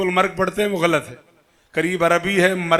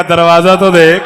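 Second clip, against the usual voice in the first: proud retort; 9 dB louder than usual. Retold or imitated. Old man's retort.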